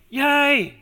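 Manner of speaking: high, drawn-out cheer; a gladly acted whoop of "yay". Preacher voices John welcoming Jesus' success, cheering.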